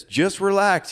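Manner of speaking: high-pitched imitation of an insistent instructor; Russell. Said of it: "he just says".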